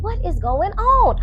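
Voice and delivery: slow, high-pitched puzzled question, imitated; mock confused. Tanisha waking up in a white room, mock confused. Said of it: "She confused".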